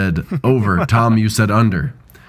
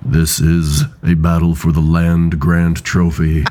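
gravelly voice; 4 semitones lower than usual. Real, not acted. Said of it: "that extra little bass in your voice".

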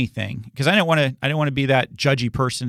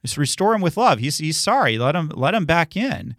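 a lightly voiced, gentle apostle pleading, higher; Paul's gentle plea; 4 semitones higher than usual. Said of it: "where Paul sends the letter and goes".

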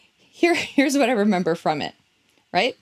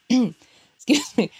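choked up; 2 semitones higher than usual. Real, not acted. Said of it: "Get a little choked up".

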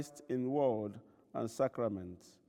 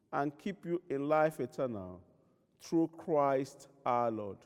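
absolution prayer. Acted. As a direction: pronounce forgiveness over the people. Pronounces the absolution.

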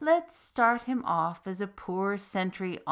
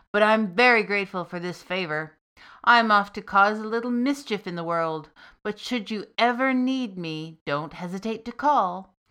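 much louder, big booming voice; booming demon; 7 dB louder than usual. Acted. Freed demon reassures the soldier with a loud boom. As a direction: boom it at him. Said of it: "the demon boomed".

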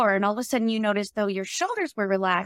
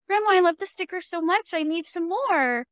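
put-on bright, quick little-kid voice, higher; kid begging grandma; 6 semitones higher than usual. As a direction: play a third grader sweet-talking grandma. Third grader writing to grandma.

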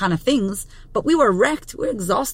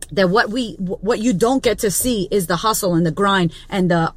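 normal talking voice

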